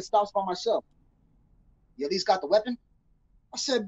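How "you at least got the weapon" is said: nonchalant. Retold or imitated. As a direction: toss the question off in passing. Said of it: "very nonchalantly again".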